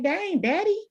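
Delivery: exaggerated mocking of a yelling father; mock dad yell. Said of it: "it's like".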